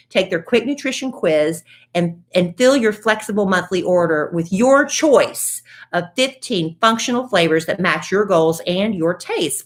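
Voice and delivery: upbeat podcast ad read; friendly sponsor read. Acted. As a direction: sell it like a host-read ad. Host reads sponsor ad.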